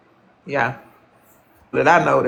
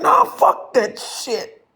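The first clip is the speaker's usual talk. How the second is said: higher, very slow drawn-out brush-off; a slow, hammed-up higher "nah, fuck that shit"; imitating him; 10 semitones higher, much slower than usual. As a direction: stretch every word like he couldn't care less. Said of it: "he was like".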